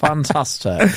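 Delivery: mock-posh English approval; playfully posh. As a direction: say it in a put-on posh accent. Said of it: "put your posh voice on".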